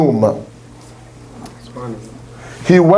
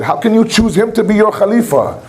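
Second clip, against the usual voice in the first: higher, pleading indignant complaint; a raised, aggrieved Shaitan arguing with God; mad Shaitan; 5 semitones higher than usual. Retold or imitated. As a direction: rise in pitch as Shaitan protests he earned it. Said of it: "He was mad".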